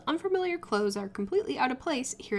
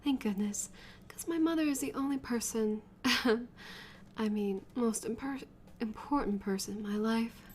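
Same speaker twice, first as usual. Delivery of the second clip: quiet relief; 7 dB quieter than usual. Acted. Soft relieved confession.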